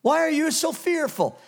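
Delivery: Jesus confronting fearful disciples, firm and loud; firm rebuke. Acted. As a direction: look them in the eye and demand it. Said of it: "He looked them right in the eye".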